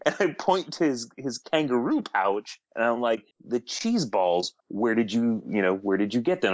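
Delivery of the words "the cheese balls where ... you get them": trying to be serious. Retold or imitated. Judge presses a player about the cheese balls, forcedly serious. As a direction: keep a straight face while questioning. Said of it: "I'm trying very hard to be, to be serious".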